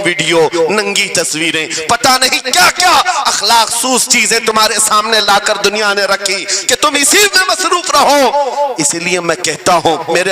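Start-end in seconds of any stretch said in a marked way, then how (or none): 1.9-8.5 raised, high-pitched sermon delivery; impassioned oratory; fiery preacher. Real, not acted. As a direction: build it up for the crowd.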